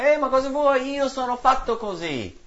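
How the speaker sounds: high, put-on voice brushing off a rebuke; a rebuked believer talking back defensively; mock defensive retort. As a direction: mimic someone waving off correction. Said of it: "Quando uno ti ha ripreso".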